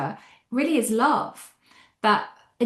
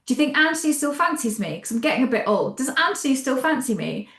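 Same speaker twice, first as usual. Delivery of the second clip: put-on quick, lightly raised, anxious girlish voice; a light mock of a teenager worrying about her boyfriend; fretting sorority girl; 4 semitones higher, faster than usual. Cleopatra to her court women, mock girlish fretting. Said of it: "worrying like a sort of sorority girl".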